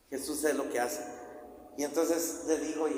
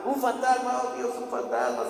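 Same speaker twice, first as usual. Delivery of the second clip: raised-pitch imitation of frightened men; mock alarm; 6 semitones higher than usual. Disciples fear they will die, mock frightened cry. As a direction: act out a mild panic. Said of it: "Y todos gritaron".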